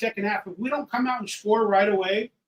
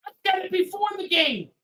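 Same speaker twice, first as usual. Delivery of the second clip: high, raised exasperated shout; 9 semitones higher than usual. Real, not acted. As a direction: yell it out in frustration. Angry fan venting.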